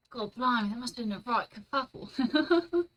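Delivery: bad mock British accent, lightly done; a half-hearted British accent. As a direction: try a cheesy British voice. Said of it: "I know it's not a very good accent".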